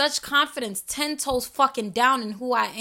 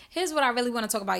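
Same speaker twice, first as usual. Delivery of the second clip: laughing restart; much faster than usual. Real, not acted.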